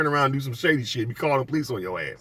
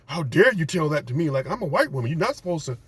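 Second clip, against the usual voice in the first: higher indignant entitled voice; mock offended Karen; 5 semitones higher than usual. Karen offended he talked back, mild higher mock voice. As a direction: act affronted and superior. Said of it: "she was like".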